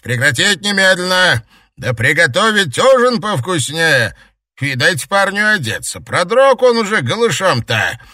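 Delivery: high, loud commanding shout; barking orders. Acted. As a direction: bellow the orders like a captain. Captain barking orders to the pack.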